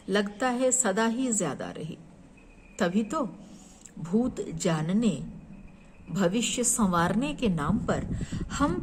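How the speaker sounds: measured poem reading with deliberate pauses; poetry recitation. Acted. Poet presents her serious poem on science, measured recitation. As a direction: recite your poem phrase by phrase, weighing each.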